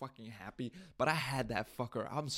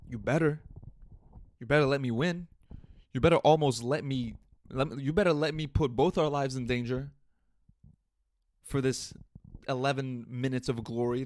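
sarcastic rant; 6 dB louder than usual. Pretend.

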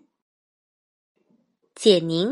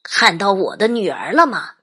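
anxious; 2 semitones higher, 4 dB louder than usual. Acted. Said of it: "焦急地问道".

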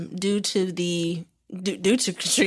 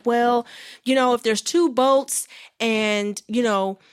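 mock condescension; 2 semitones higher than usual. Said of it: "trying to act like she was dumb".

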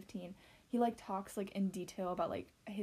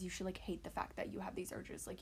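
whispered; 6 dB quieter than usual. Real, not acted. Describing society's self-hatred.

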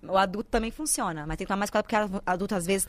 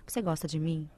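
soft ear whisper; 6 semitones lower, 5 dB quieter than usual. Retold or imitated. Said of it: "vai lá no ouvido e fica assim".

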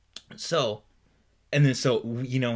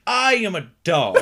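laughing; 8 semitones higher, 12 dB louder than usual. Pretend. Joke delivered to audience.

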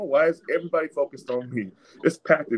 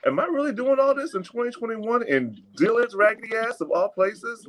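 much higher, disbelieving rant; exasperated; 12 semitones higher than usual. Real, not acted. Fed up at being watched in the store, higher exasperated disbelief. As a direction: throw it up in the air, fed up. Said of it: "because now I'm irritated".

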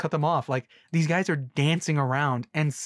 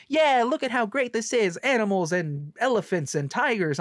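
high bright showman boast, mocking; mock movie cheerleading; 7 semitones higher than usual. Reviewer mocking the movie's circus crew, high boastful voice. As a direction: sell the circus like a proud huckster. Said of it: "They're like".

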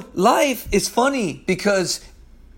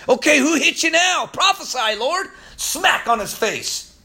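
mocking tormentors; 6 semitones higher than usual. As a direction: taunt the prisoner like a cruel guard. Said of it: "they would say to Jesus".

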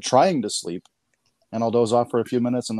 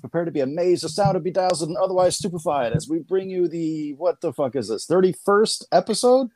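ringmaster; 6 semitones higher than usual. Acted. Ringmaster-style show intro.

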